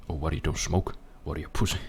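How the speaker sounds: loud sneering taunt; taunting bully. Retold or imitated. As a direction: goad the kid who refuses. Mocking pushy kids taunting.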